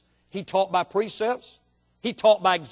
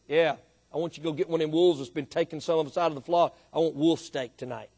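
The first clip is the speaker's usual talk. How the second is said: low, softer mock refusal; a hint of a fussy sheep, pitched down; lightly voiced stubborn sheep; 5 semitones lower, 4 dB quieter, faster than usual. Sheep demands wolf steak.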